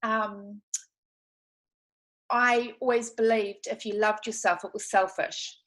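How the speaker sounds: teary, voice close to tears; holding back tears while talking; after crying. Real, not acted. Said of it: "sorry, I'm getting quite teary".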